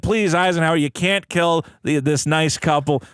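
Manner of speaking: put-on slightly slowed, makeshift New York Pope accent; half-hearted Pope accent, drifting into New York; botched Pope accent. Pope pleading with Eisenhower for the couple, loose New York accent. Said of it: "What accent is that for the Pope?".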